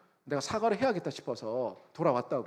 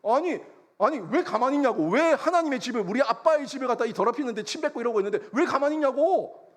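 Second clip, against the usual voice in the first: high, loud indignant outburst; worked-up protest; 7 semitones higher, 5 dB louder than usual. Retold or imitated. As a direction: re-enact furious protesting while being held back. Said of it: "화가 나가지고 막 흥분해가지고". (화나서 소리치며 따지듯)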